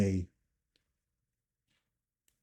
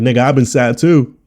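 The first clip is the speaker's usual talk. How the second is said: mock yell; 3 semitones higher, 11 dB louder than usual. Mock comeback to people who pity.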